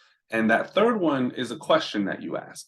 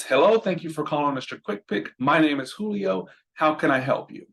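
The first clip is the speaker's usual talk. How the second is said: friendly phone intro; 4 semitones higher than usual. Shown as a demonstration. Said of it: "whenever you're doing the intro".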